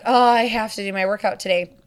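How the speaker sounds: mild mock complaint; complaining. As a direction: act out a grudging moan, lightly. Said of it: "you're complaining about having to".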